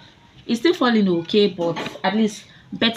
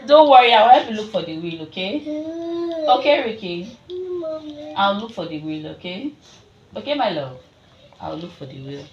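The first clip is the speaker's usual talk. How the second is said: reassuring; 3 dB louder than usual. Real, not acted. Comforting upset son.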